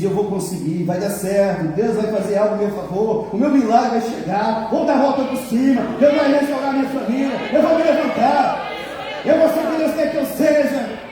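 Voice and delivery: rising from plain to a high, loud shouted proclamation; building faith declaration. Retold or imitated. Believer declaring victory out loud, building to a shout. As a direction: climb step by step into a triumphant cry of faith. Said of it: "quando você diz".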